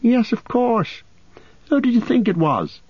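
amused teasing; Merry. A narrator's reading. Merry greets the frightened farmer, amused.

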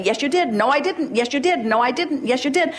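hammed-up yes-you-did argument; mock bickering. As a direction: play both sides of a childish spat. Acted back-and-forth quarrel.

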